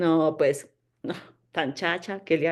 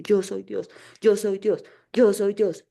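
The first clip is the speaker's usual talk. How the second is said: firm, rising emphasis on yo each time; categorical affirmation; slower than usual. Shown as a demonstration. Teacher showing her daily mantra, firm and categorical. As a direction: declare it like a mantra. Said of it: "Todos los días repetirme categóricamente".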